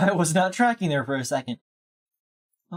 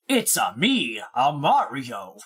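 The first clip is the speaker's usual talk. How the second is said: lightly voiced Mario, lower and slow; a hint of Mario; 4 semitones lower than usual. Shown as a demonstration. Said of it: "Mario sounds like this".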